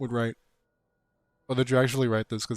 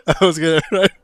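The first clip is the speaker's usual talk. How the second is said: louder, pressing the chat for an answer; loud repeat; 5 semitones higher, 10 dB louder than usual. Real, not acted. Asking his stream again, now much louder. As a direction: shout the question again. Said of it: "repeats it a third time, louder".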